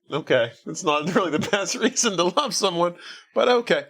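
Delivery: rising, half-laughing French-free mockery; wry disbelief. Host scoffing at a movie heroine's reason, mock disbelief. Mocking reply about bad reason.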